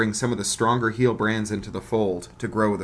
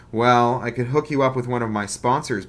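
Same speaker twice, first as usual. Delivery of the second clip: forced misery; 2 semitones higher, 5 dB louder than usual. Acted. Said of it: "forcing misery into his voice".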